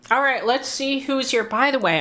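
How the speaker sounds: talking while chewing food; words around a mouthful of dinner; mouth full. Real, not acted. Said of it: "I'm kind of chewing".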